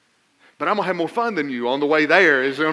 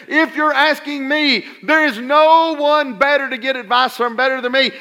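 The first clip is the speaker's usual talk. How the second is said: God's voice; 7 semitones higher, 4 dB louder than usual. Acted. Preacher voices God's reply.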